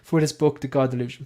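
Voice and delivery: imitated host intro padded with uhs; halting mock presenter introduction; Dara Ó Briain. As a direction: introduce a guest, stalling on every filler. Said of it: "like, that's kind of his thing".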